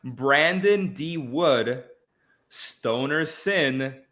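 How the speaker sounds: slow, spaced-out roll call of winners; awards announcer. Acted. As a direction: read out each name slowly with suspense pauses. Announces third-place winners.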